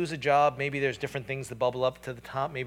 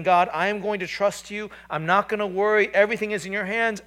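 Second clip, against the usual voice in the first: confident trust; 6 semitones higher, 8 dB louder than usual. Retold or imitated. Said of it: "It's saying".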